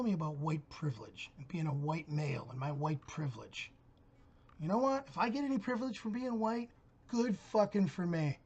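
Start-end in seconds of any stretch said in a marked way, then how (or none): 4.6-8.4 defiant outburst. Real, not acted. Defiant rant about privilege.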